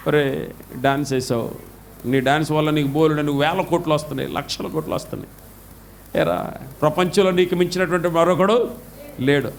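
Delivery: low stern voice of God; low rebuking God talking down to the dancer. Acted. Preacher voicing God rebuking a pop singer, low and stern.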